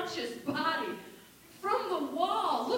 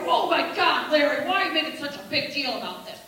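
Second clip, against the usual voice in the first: put-on drunk uncle yelling; 2 semitones lower, 6 dB louder, faster than usual. Acted family quarrel at Christmas.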